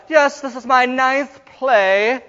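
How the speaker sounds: mock a self-important play veteran, slowly; self-important boast. Mimics the nine play girl.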